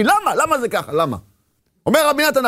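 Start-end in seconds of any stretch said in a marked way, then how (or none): 0.0-1.2 inner rebellion. Acted. Man rebelling inwardly at his lot, mock protest. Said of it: "יש לו איזה מרד פנימי".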